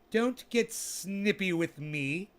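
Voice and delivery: mock scold. Scolding the snipping bud, slow mock telling-off. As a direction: wag a finger, playfully stern.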